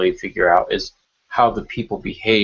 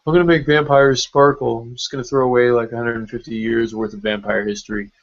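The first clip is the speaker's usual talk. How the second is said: mocking the author; 2 semitones higher than usual.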